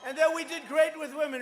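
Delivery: loud, punchy rally delivery; rally speech. Real, not acted. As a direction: pump up the crowd. Rally crowd, shouted lines.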